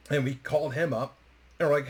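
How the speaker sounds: usual speaking voice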